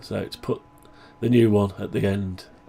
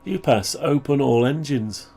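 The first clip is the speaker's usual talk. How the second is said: voice command; 4 semitones higher than usual. Shown as a demonstration. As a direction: clear command to the machine. Commanding computer again.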